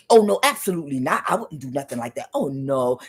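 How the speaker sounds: fast, mock innocent denial; fake denial. The gaslighter denying everything, mock innocent and fast. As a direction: brush it off with a fake smile. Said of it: "he probably talked like that too".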